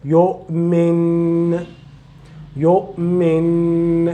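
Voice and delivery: يؤمن ending on a clear n; original noon. Shown as a demonstration. Teacher shows pausing after the word, noon kept. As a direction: stop on يؤمن and keep the noon. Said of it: "you will read it like above here".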